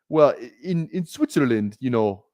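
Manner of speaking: banker with a hint of Canadian; lightly put-on Canadian accent. Retelling a Swiss banker from a movie, accidentally Canadian accent. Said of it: "I don't know why I just went Canadian there".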